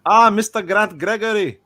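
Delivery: high, loud put-on greeting; put-on character voice. Greeting Mister Grant Gregory, loud put-on character voice. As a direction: call it out high and theatrical. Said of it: "And I was like".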